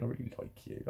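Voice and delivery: soft unvoiced whisper of a friendly smile. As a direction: breathe it like a shy compliment. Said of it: "kind of just like saying".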